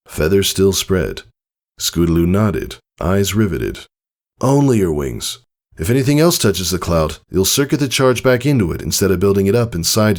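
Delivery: lightly voiced father, earnest and brisk; Tycho explaining. Father coaching daughter, earnest teacher voice.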